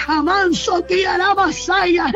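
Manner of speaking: brief fervent tongues; speaking in tongues. Real, not acted. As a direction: slip into tongues. Speaking in tongues mid-prayer.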